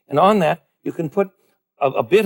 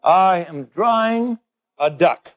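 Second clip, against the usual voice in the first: deadpan answer; much slower than usual. Retold or imitated. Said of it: "you're going to say".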